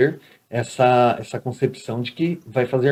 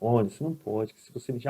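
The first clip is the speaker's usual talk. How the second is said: gentle warning; 2 semitones lower, 8 dB quieter than usual. Retold or imitated. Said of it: "você tem que chegar com amor".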